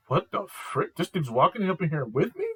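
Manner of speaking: high, loud mock outrage; shocked girl. Imitating her outrage at the dude walking in. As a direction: squeal it like she can't believe him. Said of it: "And she's like".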